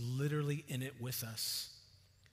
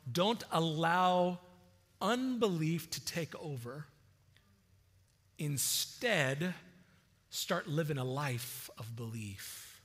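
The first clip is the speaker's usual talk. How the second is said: kind and loving; slower than usual. Shown as a demonstration. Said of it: "a very kind and loving statement".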